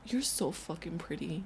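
soft, slow mock sweet talk. Imitating the ex sweet-talking her, soft and slow. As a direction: croon it like a smooth talker. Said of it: "he's just like".

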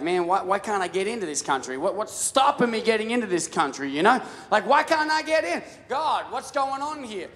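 a hint of exasperated apostle; frustrated Paul. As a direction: voice Paul pleading with God, exasperated. Voicing Paul's frustration.

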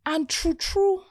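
laughing through the story. Real, not acted. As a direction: giggle out the punchline. Bill arrives, laughing retelling.

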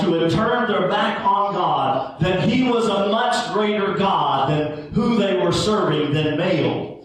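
rising sermon fervor; preaching. Acted. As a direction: preach it to the congregation, building. Preaching builds, raised pitch.

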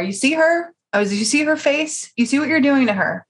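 acted-out indignant questioning; retold confrontation.

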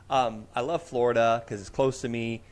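stuffy congested voice with throat clearing. Real, not acted. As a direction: speak through a head cold. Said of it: "I'm so congested today".

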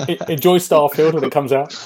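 laughing. Real, not acted. Joking farewell while laughing.

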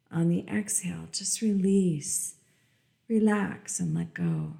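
calm meditative tone; guided meditation. Acted. Leads a breathing meditation.

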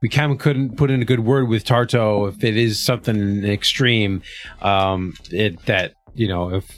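consoling. Acted. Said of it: "the consoling voice".

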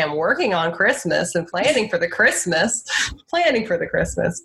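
a light attempt at a Slovenian-accented "Christmas"; half-hearted Slovenian accent, tongue in cheek; mock Melania accent. Podcaster tries a Slovenian accent on a Melania quote. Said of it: "Okay, and then I do it".

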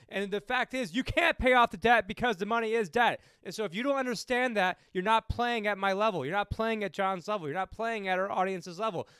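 real irritation building as he lectures; getting pissed. Real, not acted. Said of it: "I'm sorry I'm getting pissed".

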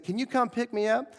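high-pitched hopeful request; retold calling out. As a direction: imitate someone calling over with a favor to ask. Man calling after him, asking favor.

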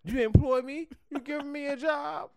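high excited mock question; mock surprise. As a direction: play a hopeful job seeker. Mock mishearing joke.

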